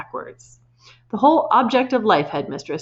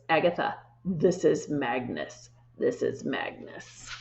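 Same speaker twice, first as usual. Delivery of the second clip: ghostly voice; 5 semitones lower, 7 dB quieter, slower than usual. A narrator's reading. Ghost's message on the board.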